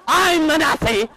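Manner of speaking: full-blown high-pitched shriek; very loud comic screech; imitated screaming wife. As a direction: scream the insult back, hysterically. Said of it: "She's screaming now".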